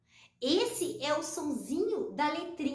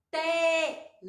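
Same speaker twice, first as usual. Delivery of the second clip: Telefone in four long, separate syllables; slower than usual. Shown as a demonstration. Teacher showing children the written word, syllable by syllable. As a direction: sound out Telefone slowly, te, le, fo, ne. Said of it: "ó".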